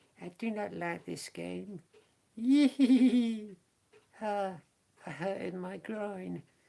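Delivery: very high, squeaky castrato-like voice, very slow, "yee" stretched out. Describing the character Bluebottle, the speaker does a high-pitched Bluebottle voice. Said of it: "very high-pitched".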